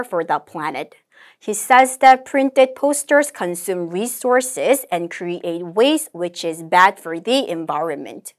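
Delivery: slow, measured English recitation; model read-aloud. Shown as a demonstration. Teacher models the conversation summary, slow deliberate reading. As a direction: read it out slowly, phrase by phrase. Models full answer for students.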